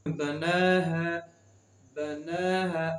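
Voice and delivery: long held ना in बना है; stretched vowel. Shown as a demonstration. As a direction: draw out the ना of बना है. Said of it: "खींच कर पढ़ते हैं". (बना है का ना खींच कर)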